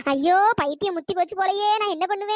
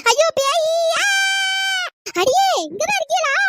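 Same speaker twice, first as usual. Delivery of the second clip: terrified; 8 semitones higher, 5 dB louder than usual. Acted. Terrified of a ghost.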